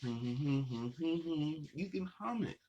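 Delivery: very slow, laughing, stretched; laughing drawn out. Real, not acted. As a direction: drag it out through a laugh. Playful reminder to hum.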